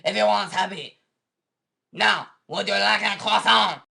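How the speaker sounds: put-on disclaimer read in a French accent; French-accented mock announcer. French disclaimer, offers croissant.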